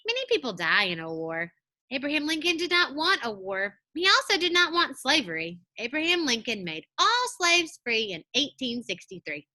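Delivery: expressive model reading for second graders, clear and fluent; reading aloud to children. Acted. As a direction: read it like showing kids how good readers sound. Teacher reads passage aloud to class.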